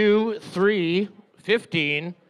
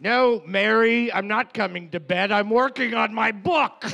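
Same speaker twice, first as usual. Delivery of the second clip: Joseph's voice; 5 semitones higher, 3 dB louder than usual. Acted. Voicing Joseph to his wife.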